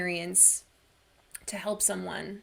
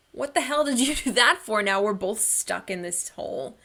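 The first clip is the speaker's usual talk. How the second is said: exasperated outburst; 5 dB louder than usual. Retold or imitated. Stuck person snapping at the friend who jumped in, mock exasperated. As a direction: throw it at the friend in disbelief.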